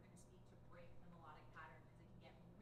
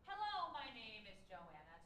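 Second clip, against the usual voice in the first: slow melodic; 7 dB louder, slower than usual. Shown as a demonstration. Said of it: "find various melodies in our speaking voice".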